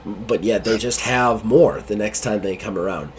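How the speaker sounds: slow, subdued confiding captain; troubled captain. Acted. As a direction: confide quietly across the desk.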